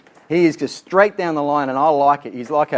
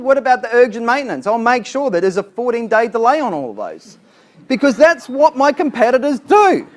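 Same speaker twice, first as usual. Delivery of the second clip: blunt straight-talking agent, higher and a bit louder; George's blunt version; 3 semitones higher, 3 dB louder than usual. Shown as a demonstration. Blunt agent George telling Mister Smith straight, punchy and plain-spoken. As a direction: call a spade a spade, push back hard. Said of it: "George's version".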